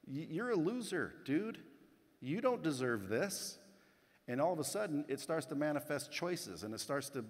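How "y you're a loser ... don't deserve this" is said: a lightly voiced inner critic, slowing at the end; nagging inner voice. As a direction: sneer it like your own doubt, half-acted. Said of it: "inside your head says".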